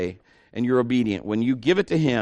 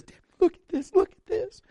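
much higher, thrilled, showing off a big check; excited. Retold or imitated. Evangelist showing his wife Debbie the offering, excited. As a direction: gush it out like you can't believe your luck.

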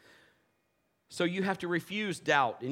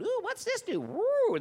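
put-on high, wondering kid voice; mock excited kid squeal; curious kids; slower than usual. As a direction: play a kid poking buttons. Kids poking at equipment.

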